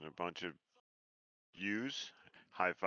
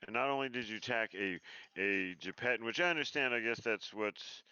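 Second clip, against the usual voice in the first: higher, louder indignant rant; angry scolding; 4 semitones higher, 3 dB louder than usual. Acted. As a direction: chew them out for attacking. Character scolds NPCs.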